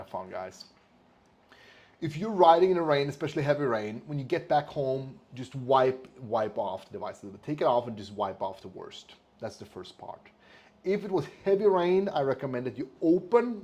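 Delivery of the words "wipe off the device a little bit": ordinary talk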